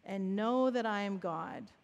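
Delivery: measured prayer broken by a breath. Shown as a demonstration. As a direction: breathe in, then settle into the prayer. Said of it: "So we would breathe in".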